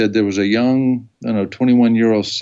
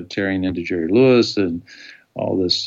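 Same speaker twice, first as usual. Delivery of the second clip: ordinary talk, nothing marked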